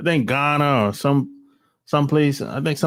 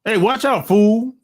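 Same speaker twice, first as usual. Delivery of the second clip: mock eighties tough talk, higher, louder on the last word; eighties lingo; 5 semitones higher, 3 dB louder than usual. Imitating people who never upgraded their lingo, mock eighties slang. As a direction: parody a stereotyped movie warning, pitched up. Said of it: "That's eighties lingo".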